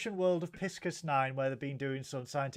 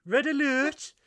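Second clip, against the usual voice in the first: mock red alert; 10 semitones higher, 7 dB louder than usual. Mock ship computer alert.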